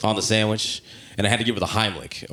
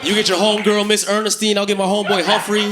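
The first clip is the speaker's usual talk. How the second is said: mock passionate lover; 7 semitones higher than usual. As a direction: play a lover moaning a silly name mid-passion. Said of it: "You know how crazy this?".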